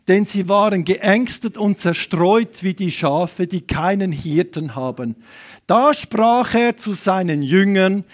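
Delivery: slow, weighty Bible reading; measured pulpit recitation; solemn scripture reading. Real, not acted. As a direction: read the verse out deliberately, word by word. Reads the Bible verse aloud.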